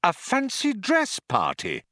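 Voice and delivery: high, emphatic indignation; trembling with anger. A narrator's reading. Arthur adds damning detail about the party, angrily. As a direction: spit out the detail, pitched high. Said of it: "trembling with anger".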